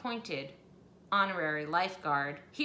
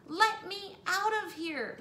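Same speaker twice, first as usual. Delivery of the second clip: high, louder panicked cry; shrieking; 11 semitones higher, 4 dB louder than usual. Acted. Missus Hipple desperate to flee, high shriek. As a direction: beg to escape in panic. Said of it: "Missus Hipple shrieked on".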